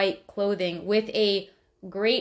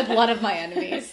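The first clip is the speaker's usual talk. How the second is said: laughing; 3 dB louder, faster than usual. Real, not acted. Joking answer with laughter.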